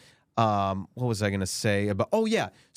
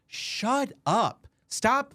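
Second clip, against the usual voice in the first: shrill high snap, shut up; mock fed-up shriek; exasperated mock outburst; 12 semitones higher, much slower than usual. Mocking outburst at critics.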